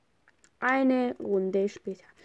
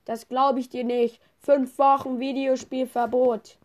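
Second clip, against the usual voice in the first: stern parent; 3 semitones higher, 5 dB louder than usual. Pretend. Parent scolds child.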